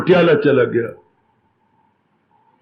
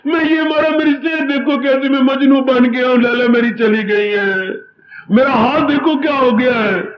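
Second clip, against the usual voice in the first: crying son; 5 semitones higher than usual. Acted. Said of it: "son pleads to father".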